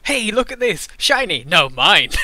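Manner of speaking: mocking the goblin's bait; hammed-up goblin yelling. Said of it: "what an asshole goblin".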